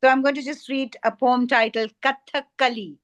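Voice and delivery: normal talking voice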